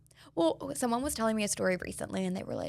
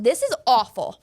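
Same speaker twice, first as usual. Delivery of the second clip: dismayed; 2 semitones higher, 9 dB louder than usual. Retold or imitated. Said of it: "And I'm like".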